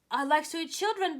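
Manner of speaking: loud, quick giant growl. Acted. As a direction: state it like a hungry giant.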